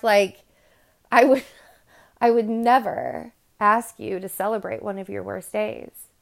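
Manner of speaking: ordinary delivery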